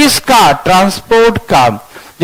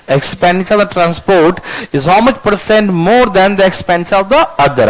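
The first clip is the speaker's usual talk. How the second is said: slow dictation; much slower than usual. Shown as a demonstration. Teacher repeats dictation slowly.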